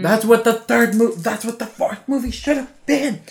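high, drawn-out excited exclamation, starting loud; excited outburst. Real, not acted. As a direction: burst out with the idea, slow and high. Outburst over a sudden plot idea.

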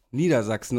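Niedersachsen with the weight on SACHSEN; stress on SACHSEN. Shown as a demonstration. Host explaining the ticket's name, Niedersachsen stressed on SACHSEN. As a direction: lean on the second half, SACHSEN, in Niedersachsen. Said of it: "mit Betonung auf Sachsen".

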